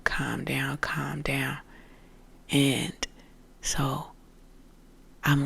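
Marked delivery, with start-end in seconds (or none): 0.0-1.6 soft whisper. Retold or imitated. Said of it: "energies telling me to calm down".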